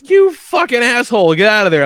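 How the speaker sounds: retold furious wife, hammed up; wife's angry scolding. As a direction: imitate the wife chewing him out. Wife scolding him by text.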